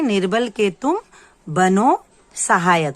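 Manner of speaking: निर्बल के तुम rising, then a pause, then बनो सहायक slow and falling; teacher reciting the poem line for children; slow recitation. Shown as a demonstration. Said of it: "क्या है?".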